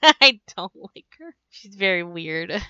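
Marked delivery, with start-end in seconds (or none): 0.0-1.3 laughing through the words; giggly admission of dislike. Real, not acted. Laughing over shared dislike.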